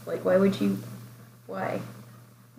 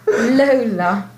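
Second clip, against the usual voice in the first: laughing. Real, not acted. Echoing the name with a laugh.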